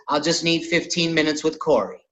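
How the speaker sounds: a hint of the comedian's laid-back pleading; Cat Williams impression. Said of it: "Just Cat Williams voice".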